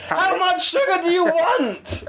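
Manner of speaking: high, slow exasperated question. Retold or imitated. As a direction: ask with strained patience. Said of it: "I was like".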